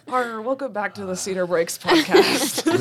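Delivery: slow pirate growl of a welcome. Pretend. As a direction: greet listeners as a pirate, slowly. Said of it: "Start talking like a pirate".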